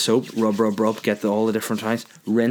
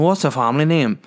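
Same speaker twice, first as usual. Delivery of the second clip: country taxi driver; 5 semitones higher, 3 dB louder than usual. Retold or imitated. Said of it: "that's country folk".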